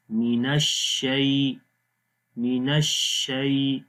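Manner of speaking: slow, soft ya in الشیء. Shown as a demonstration. Teacher models soft ya for the class. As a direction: stretch الشیء gently with a soft ya glide. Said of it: "یا کو نرم پڑھیں گے".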